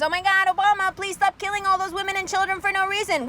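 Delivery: hammed-up Karen begging Obama to stop; mock Karen. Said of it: "where were all the Karens".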